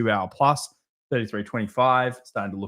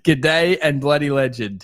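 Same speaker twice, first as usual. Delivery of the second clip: slow, hammed-up Aussie twang on the greeting; mock Australian accent; 5 semitones higher, 6 dB louder, slower than usual. Echoing a viewer's Aussie greeting in a mock Australian accent. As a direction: play it up like a cheery Australian mate. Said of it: "Sounds like you're Australian".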